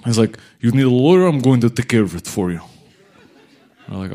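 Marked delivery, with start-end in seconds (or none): 0.6-2.6 put-on Russian accent. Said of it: "scary Russian dude".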